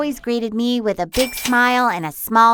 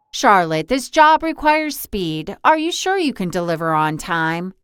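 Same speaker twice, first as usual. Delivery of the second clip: a lightly voiced boss, lower and measured; stern boss; 4 semitones lower than usual. Boss sizing up Charlotte for the job, lightly stern. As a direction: test the new hire like a tired, stern boss. Boss questions new delivery girl.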